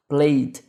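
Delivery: "played" ending in a D; final D sound. Shown as a demonstration. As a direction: say "played" slowly, closing on a D. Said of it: "com o D".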